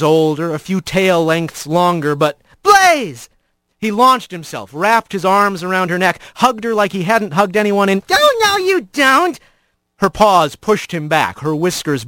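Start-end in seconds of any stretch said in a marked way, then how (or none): 2.6-3.3 high, loud, delighted cry of a name; joyful shout. Acted. Rat spots his old friend, shouting with joy. 8.1-9.4 high, mock-stern pushback; playful female refusal. Blaze fends off Rat's hug, mock stern. Blaze pushing Rat back.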